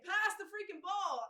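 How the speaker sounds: high, loud, drawn-out team shout; slow, high-pitched holler across a court; mock yelling. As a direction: yell impatiently for the ball. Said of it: "So people are yelling".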